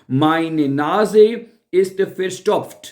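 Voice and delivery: slow, careful German sentence; slow model phrase. Shown as a demonstration. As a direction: lay each word out slowly for learners. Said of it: "स्टॉप नहीं कहते".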